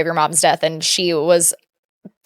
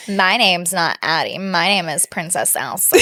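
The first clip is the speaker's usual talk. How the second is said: slow, measured sassy imitation; sassy child; 3 semitones lower, 4 dB quieter, slower than usual. Imitating a girl introducing herself to other kids, lightly sassy. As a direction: draw it out like a self-important little girl. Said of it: "she is so sassy".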